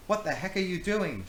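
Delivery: high loud shocked shout. Acted. Samantha stopping Rachel's knife throw, loud shout. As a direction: yell at her to stop. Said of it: "shouted Samantha".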